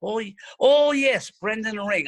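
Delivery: put-on high, slowed old lady's voice recognising him; old teacher's voice. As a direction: pitch up into an elderly teacher finally placing him.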